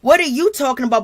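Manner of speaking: mock flustered comeback, pitched slightly up; lively, mildly hammed-up nervous retort; nervous protest. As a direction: imitate a rattled friend on the defensive. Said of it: "she did that nervous shit".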